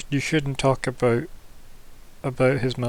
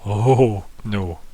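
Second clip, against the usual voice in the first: dawning dread; 4 semitones lower than usual. Acted. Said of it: "it really sinks into him".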